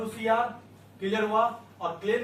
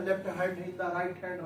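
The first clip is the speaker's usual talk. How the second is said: slow drilled phrase; much slower than usual. Shown as a demonstration. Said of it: "teacher drills phrase".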